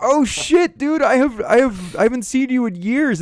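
high-pitched, delighted surprise; excited reunion shout at normal volume; retold excited greeting. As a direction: re-enact greeting a long-lost friend, voice way up.

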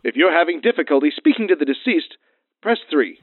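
polished recorded hotline voice; phone menu voice. Acted. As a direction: read it like an automated menu.

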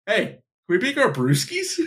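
high goofy frat bro; dumb frat boy voice. Retold or imitated. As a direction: ask it like a clueless frat bro. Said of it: "one of the frat boys interrupts him and says".

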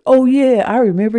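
imitated moment of remembering; sudden recollection. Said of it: "then he remembered".

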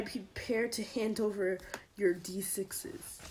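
whispering. Real, not acted. Whispered ominous aside.

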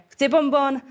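lightly voiced child wanting candy; child asking. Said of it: "prosí rodiče, že". (dítě chce bonbon)

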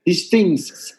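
Latino-accented English with a hard T on "These things". Shown as a demonstration. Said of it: "la forma que los latinos dicen la T".

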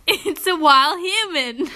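slow, laughing mock Australian; attempted Australian accent. Shown as a demonstration. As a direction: repeat it in faked Australian, amused. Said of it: "what is this accent?".

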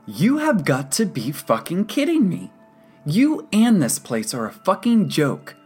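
high, loud enraged rant; seething patient exploding in outrage; furious. A narrator's reading. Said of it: "Alfonso looked ready to kill".

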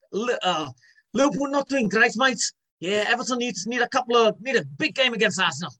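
high-pitched Scouse football talk; Scouse accent impression; Carragher. Shown as a demonstration. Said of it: "so Scouse one, uh, or Carragher".

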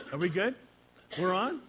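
shouting to the crew whether they're live. Real, not acted. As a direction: call across the room to the tech. Checking if livestream is on.

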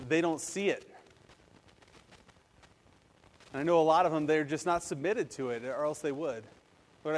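earnest pastoral prayer, even and flowing; spoken prayer. Real, not acted. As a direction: lead a congregation in sincere prayer. Leads the congregation in prayer.

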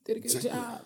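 soft coo. Retold or imitated. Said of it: "She even said".

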